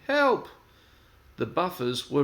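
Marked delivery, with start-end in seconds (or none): 0.1-0.5 loud, high shout for help; wailing cry. Acted. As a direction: call out in panic. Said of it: "wailed Percy".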